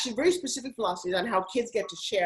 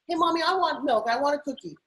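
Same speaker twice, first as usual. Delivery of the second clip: lightly voiced pleading kid, higher at first; wanting child; 5 semitones higher than usual. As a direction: imitate a small child asking Mommy. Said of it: "they always want something".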